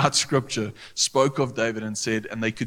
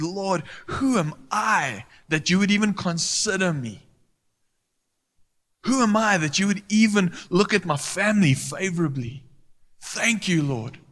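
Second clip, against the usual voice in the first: humble prayer; 7 semitones higher than usual. Retold or imitated. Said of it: "approaches God in absolute humility and says".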